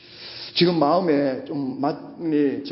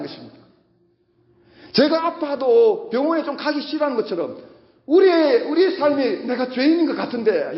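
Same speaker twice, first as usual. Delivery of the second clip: preaching; 5 semitones higher than usual. Real, not acted. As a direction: preach it to the congregation, driving each phrase home. Preaches to congregation. (힘 있게 설교하는 말투)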